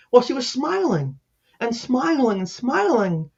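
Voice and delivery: high, stretched-out repetitions; retold indignant complaint. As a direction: draw out each repeat in exasperation. Mother's accusing complaint, acted.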